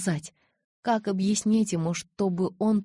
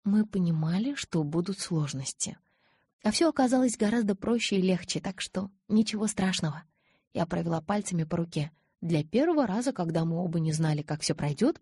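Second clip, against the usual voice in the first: gentle reassuring voice; girl soothing her anxious lover; soothing, tender. Acted. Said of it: "заговорила успокаивающе и ласково".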